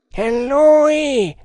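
very high cry; shout of alarm. A narrator's reading. Enemy on the bank spotting the hunter, high shout. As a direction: shout it high as you spot him. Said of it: "gridò una voce".

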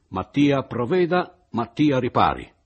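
Malagna furioso, forte e lento; furore. Acted. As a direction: scandisce ogni parola con rabbia. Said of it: "congestionato dal furore". (Malagna furioso esige riparazione da Mattia)

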